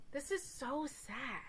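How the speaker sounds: slow, soft mournful whisper; sad whisper. Retold or imitated. Brenna mourning the blown-up island in a slow whisper. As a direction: breathe it out sadly and slowly. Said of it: "Brenna goes".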